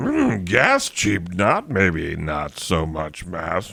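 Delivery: slow, drawn-out, swooping, rising question-like tune. Showing how to do the voice, phrasing it as a question: Yoda voice. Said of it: "you gotta also pose it as a question".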